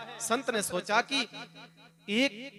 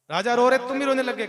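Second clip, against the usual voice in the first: incredulous; 3 semitones higher, 7 dB louder, faster than usual. Acted. Saint incredulous at crowd.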